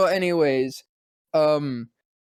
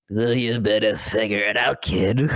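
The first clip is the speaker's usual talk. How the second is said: low murmur like Batman; 6 semitones lower than usual. Retold or imitated. Batman introducing Mark Hamill, low deadpan voice.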